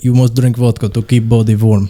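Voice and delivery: mock Russian accent, blunt commands; lightly put-on Russian accent. Friend joking about Russians drinking in the cold, mock Russian accent.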